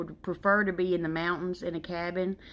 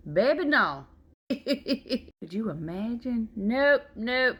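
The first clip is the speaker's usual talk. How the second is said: higher, louder, laughing refusal; laughing disbelief; 5 semitones higher, 3 dB louder, much slower than usual. Real, not acted. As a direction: laugh off the very idea. Horror at newborns in mid-forties.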